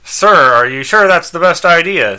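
high, loud, doubtful robot helper; concerned robot servant; Skeets. Acted. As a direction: question the boss in a dutiful robot voice. Robot companion doubts his owner.

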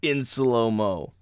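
drawn out like a slow-motion replay. Acted. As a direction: stretch the words out, very slow. Describing slow-motion video.

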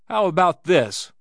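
loud, high angry challenge; wrathful. A narrator's reading. Swede accosts the seated gambler, wrathfully. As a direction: demand it with rising temper.

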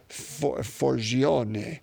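Forgione said the Italian way, for-JO-neh, ending on a rise; Italian accent. Shown as a demonstration. Priest sounding out a saint's surname in an Italian accent. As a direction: Forgione with a light Italian accent, each syllable clear. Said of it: "So that's my Italian accent".

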